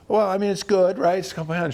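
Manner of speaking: high-pitched, trying-to-be-positive retelling; awkward encouragement. Retold or imitated. Young trainer reassuring disappointed client.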